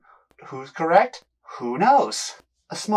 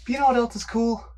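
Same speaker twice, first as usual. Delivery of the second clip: muffled behind a mask; behind welding mask. Real, not acted. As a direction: talk through a welding mask. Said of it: "Can't wear my glasses with the mask on".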